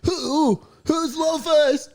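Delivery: high, slow puzzled question; confused surprise. Acted. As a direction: ask in bewilderment.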